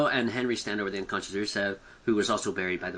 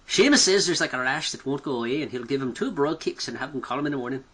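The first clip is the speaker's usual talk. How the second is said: put-on Irish accent; 4 semitones higher than usual. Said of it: "Not bad, not bad".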